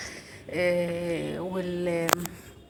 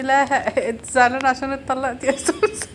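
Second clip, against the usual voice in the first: laughing through the words, raised pitch; amused teasing; 5 semitones higher, 6 dB louder than usual. Retold or imitated. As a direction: tease the child while cracking up. Laughs teasing daughter about pretend divorce.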